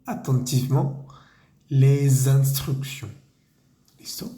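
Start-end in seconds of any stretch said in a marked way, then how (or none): 0.0-3.1 slow, careful French phrase read for repeating; slow teacher dictation; slow model reading. Shown as a demonstration. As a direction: read each chunk slowly for learners. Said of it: "toda esa frase queda".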